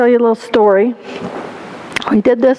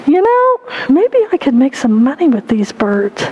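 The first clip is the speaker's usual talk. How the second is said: mildly acted dawning idea; scheming little boy; 2 semitones higher than usual. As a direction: muse aloud as a boy spotting profit. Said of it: "And the boy said".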